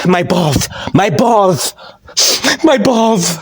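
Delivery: mock lisp, "balls" as "ballth"; Cody Rhodes. Kicked wrestler moaning in pain, lisped "balls". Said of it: "I hate this guy's stupid lisp".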